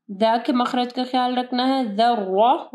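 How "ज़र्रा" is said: ज़र्रा with a thick doubled R, "dharro"; ज़र्रा, weighty second syllable; heavy Ra. Shown as a demonstration. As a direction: round the end of ज़र्रा into a heavy "ro". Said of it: "रा heavy पढ़ी जाएगी".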